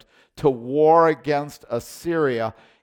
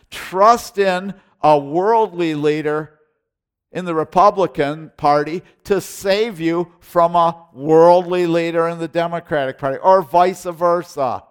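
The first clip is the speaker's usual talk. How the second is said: emphatic preaching; 2 semitones higher, 6 dB louder than usual. Real, not acted. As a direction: preach it hard at the church. Preacher rebuking party politics.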